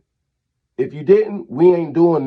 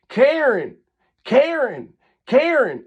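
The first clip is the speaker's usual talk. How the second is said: calling out; 5 semitones higher, slower than usual. Real, not acted. Calling out the neighbor by name.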